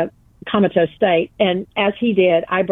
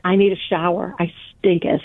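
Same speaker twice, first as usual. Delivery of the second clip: mock-archaic stinketh. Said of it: "That's exactly the way I said it".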